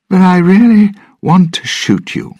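put-on high, loud, furious drunken threat; threatening. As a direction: shout it straight at him. Drunk Norrington aiming gun at Jack.

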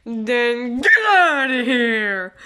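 drawn-out order to leave; slow, forceful rejection; dismissive yell. Acted. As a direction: stretch it out and kick them out. Throws Bonnie out of the party.

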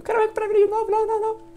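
high silly squeak; high squeaky voice. Pretend. Playful high voice in game.

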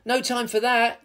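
high urgent hero's call; yelling. A narrator's reading. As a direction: call it out over the chaos. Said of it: "yelled Captain Lou Roll".

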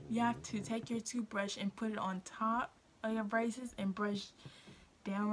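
talking around a finger; finger in mouth. Real, not acted. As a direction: lips held apart by finger. Seen 1: finger pressed across lips against braces while demonstrating brushing.

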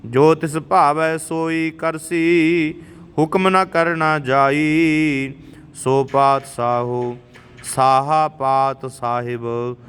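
slow, measured devotional chant; chanting scripture as a teacher; scripture recitation. Acted. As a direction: intone each line with reverence. Recites Gurbani again.

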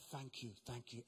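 low, soft polite thank you; meek thanks. Retold or imitated. Mark thanks the minister meekly, low and soft. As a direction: swallow your pride, softly.

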